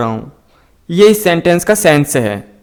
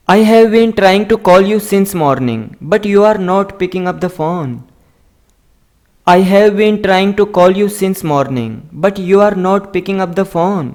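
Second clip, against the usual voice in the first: slow, careful dictation of each word; slow model reading; much slower than usual. Shown as a demonstration. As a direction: read it out slowly for learners to copy. Teacher slowly models English sentences. (धीमी, साफ़ पढ़ाने वाली आवाज़)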